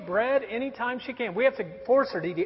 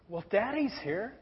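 reassuring; 6 dB quieter than usual. Retold or imitated. Comforting his scared daughter.

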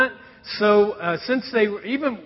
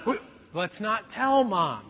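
conspiratorial; 7 dB quieter than usual. Retold or imitated. Conspiring secret with daughter.

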